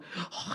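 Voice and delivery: breathy, voiceless sobbing gasp; mock sob on a sharp breath; imitated sob. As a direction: mimic a burst of sorrowful crying. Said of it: "이렇게 우는 게 아니라".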